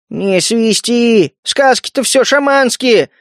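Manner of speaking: high, slow, heated scoff; enraged retort. A narrator's reading. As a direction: bristle at the rat's tale. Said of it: "взъярился жаба".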